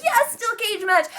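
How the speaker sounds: high, drawn-out cheer of delight; stretched-out, high-pitched fan excitement; excited cheer. Retold or imitated. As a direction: whoop it like a thrilled fan. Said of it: "I'm already excited".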